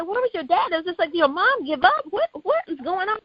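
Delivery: baffled questions, retold from memory; retold disbelief. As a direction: ask it in mild shock, pitch lifted. Retold shocked questioning of friend.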